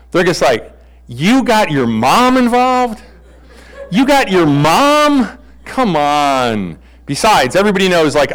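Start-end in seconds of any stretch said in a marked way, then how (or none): 1.1-6.8 high, slow outraged disbelief; you brought your MOM?, mock indignant; incredulous protest. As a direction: drag it out, scandalised. Brothers protest mom's involvement.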